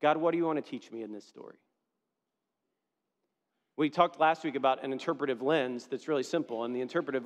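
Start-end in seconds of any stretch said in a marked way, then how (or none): 0.0-1.6 sincere question to God. Shown as a demonstration. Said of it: "ask this question".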